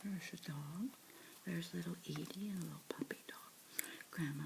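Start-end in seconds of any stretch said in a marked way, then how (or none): none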